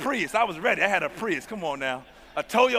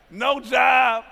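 loud emphatic cry; 4 semitones higher, 4 dB louder than usual. Real, not acted. Preacher stressing his plight.

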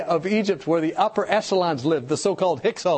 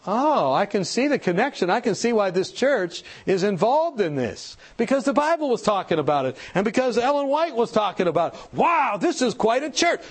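dawning amazement; 3 semitones higher than usual. Acted. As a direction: build to an impressed wow. Acting out impressed visitors' realisation.

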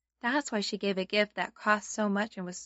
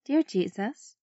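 sunday school teacher. Shown as a demonstration. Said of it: "Let's fold our hands and pray together".

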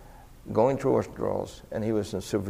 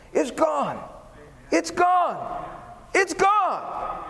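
high, rising cries of release, each higher than the last; joyful cry; much slower than usual. Retold or imitated. Preacher reliving the freed man's cry, high and ecstatic. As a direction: cry it out like a weight just lifted.

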